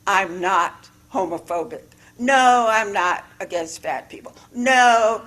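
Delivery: mock defensive denials. Shown as a demonstration. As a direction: protest a little too hard. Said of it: "you hear the difference in the voice?".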